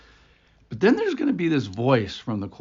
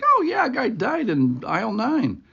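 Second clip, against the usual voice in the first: casual clerk; 11 semitones higher, 3 dB louder than usual. Retold or imitated. Store worker's casual reply.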